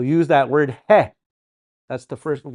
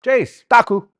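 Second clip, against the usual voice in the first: curt answer; 9 semitones higher, 8 dB louder than usual. Acted. Acts out answering someone calling.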